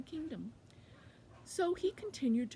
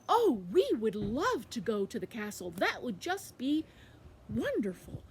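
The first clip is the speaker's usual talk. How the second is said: loud, gushing delight; thrilled beehive; 6 dB louder than usual. Acted. Beehive accepting a trip to the castle, loud gushing delight. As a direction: stretch it out with big swoops. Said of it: "the beehive said".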